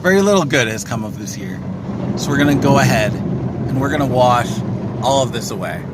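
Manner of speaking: over the roar of a car wash; talking inside a noisy car wash. Real, not acted. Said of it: "We're in the car wash right now".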